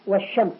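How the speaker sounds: "والشمس" with no l, long sh; silent lam. Shown as a demonstration. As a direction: glide from wa into sh in "والشمس". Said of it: "ولا تسمع في النطق". (إخفاء لام "والشمس" وتشديد الشين)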